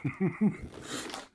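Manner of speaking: sudden loud burst of laughter. Real, not acted. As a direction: laugh out loud, then catch yourself. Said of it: "sorry, I have to be quiet".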